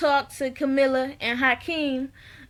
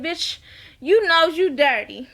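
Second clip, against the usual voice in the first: playful, emphatic call-out; mock scolding. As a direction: scold them with amused outrage. Mock scolding of show character.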